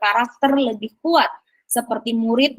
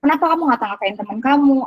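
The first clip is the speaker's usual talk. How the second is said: questioning the student; 3 semitones higher, 3 dB louder, faster than usual. Shown as a demonstration. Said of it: "validasi tindakan yang salah".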